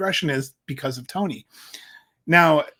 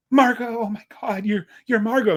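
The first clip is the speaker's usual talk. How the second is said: starstruck fan; 6 semitones higher than usual. Retold or imitated. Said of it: "She runs into the dressing room".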